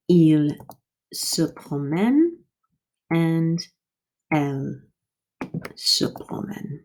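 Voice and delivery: il se promène, elle se promène, slow and fading; model forms. Shown as a demonstration. Teacher to class, slow model pronunciation. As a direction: spell it out slowly. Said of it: "are going to be".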